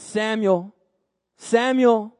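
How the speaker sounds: lightly acted voice calling out a name; distant calling voice. Voice calls a sleeping boy, distant calling. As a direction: call the name as a mysterious voice, long pause between. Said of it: "a voice seemingly in the distance".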